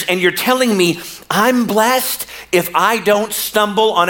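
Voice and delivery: rising, wounded complaint, slowing at the end; building from puzzled to aggrieved; hurt protest. Retold or imitated. Preacher voicing John pleading with cousin Jesus, hurt and aggrieved.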